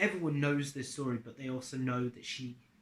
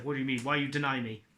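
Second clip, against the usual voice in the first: imitating an angry god, louder; lightly acted indignant demand, raised volume; mock anger; 6 dB louder, faster than usual. Zeus to Percy after being refused, mock anger. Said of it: "Zeus gets really pissed".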